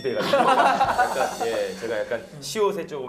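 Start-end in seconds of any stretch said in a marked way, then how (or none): none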